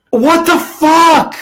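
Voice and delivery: high strained shriek, drawn out; snapped outcry. Retold or imitated. Student hearing teacher left on vacation, a drawn-out high cry. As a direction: let it crack out of you, slow and disbelieving. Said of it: "I snapped".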